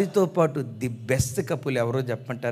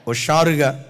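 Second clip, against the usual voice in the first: cheerful call; 4 dB louder than usual. Real, not acted. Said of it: "కొంచెం పెద్దగా చెప్దాం".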